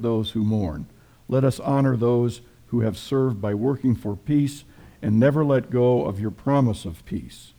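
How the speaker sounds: solemn spoken prayer voice. Real, not acted. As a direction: pray it steadily and reverently. Leads a prayer for soldiers.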